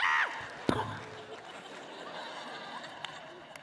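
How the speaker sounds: high, wheezy laugh; mimicked laughing fit dying down; cop cracking up. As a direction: laugh helplessly, trailing away. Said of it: "the cop is in the middle of the freeway dying".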